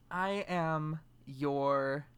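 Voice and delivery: put-on very slow botched Russian accent, sliding into French; attempted Russian accent. Introducing himself as Russian host, slow, botched Russian accent. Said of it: "Russian host".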